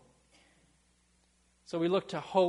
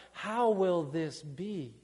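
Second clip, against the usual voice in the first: crying out; much slower than usual. Retold or imitated. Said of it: "and we cry out".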